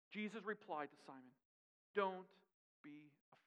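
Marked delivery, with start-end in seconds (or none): 1.9-3.4 gentle reassurance. Acted. Jesus voiced reassuring Simon.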